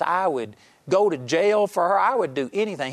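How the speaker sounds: retold indignant yell. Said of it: "he yelled at me".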